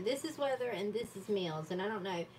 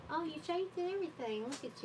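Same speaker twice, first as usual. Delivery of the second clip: surprised; 7 semitones higher than usual. Real, not acted. Surprise at viewer's change.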